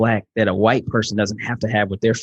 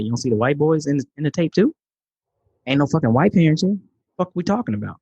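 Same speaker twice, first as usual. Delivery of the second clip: retold outrage; 4 semitones higher than usual. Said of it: "I'm thinking in my head".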